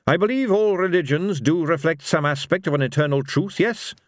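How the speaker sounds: high, earnest character voice; Carrot, earnest believer. Acted. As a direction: state it sincerely, seeking agreement.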